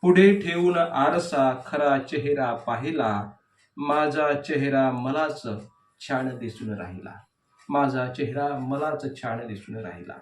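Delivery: measured verse reading with falling line endings; declaimed poetry, leaning on each opening word; poem recitation. Acted. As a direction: recite the verse line by line, pausing between phrases.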